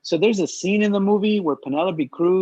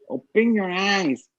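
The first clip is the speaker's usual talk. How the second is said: mock Spanish accent; 3 semitones higher, slower than usual. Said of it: "making fun of that accent".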